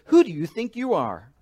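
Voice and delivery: lightly voiced angry priest asking; indignant challenge. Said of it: "the modern translation".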